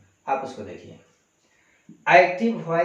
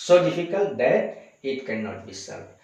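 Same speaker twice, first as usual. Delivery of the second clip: slow clear reading; much slower than usual. Shown as a demonstration. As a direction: read the sentence very slowly. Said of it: "teacher reads finished sentence". (धीमे और साफ़ पढ़ना)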